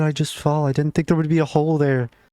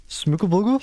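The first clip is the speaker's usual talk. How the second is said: calling out a name; 7 semitones higher than usual. Real, not acted. Calling out for lost pet.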